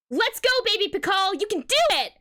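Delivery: high cheer from the sidelines; rousing high-pitched encouragement; encouraging yell. A narrator's reading. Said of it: "yells Crime".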